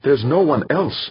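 high-pitched insistence; insistent. A narrator's reading. Woman pushing a frightened preacher to act, insistent. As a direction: press the point, voice lifted high. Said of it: "Lara insisted".

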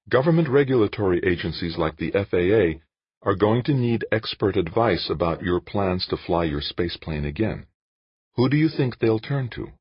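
a hint of an earnest woman reasoning; lightly voiced Jane, insistent. Narrator voices Jane arguing with Dan.

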